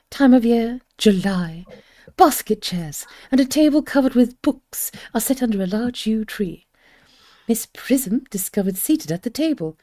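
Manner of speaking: measured narration of the setting, partly whispered; stage directions read aloud. Acted. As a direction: set the scene calmly for the audience.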